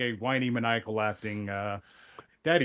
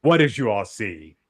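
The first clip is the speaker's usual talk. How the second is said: incredulous; 7 dB louder than usual. Retold or imitated. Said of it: "to be like".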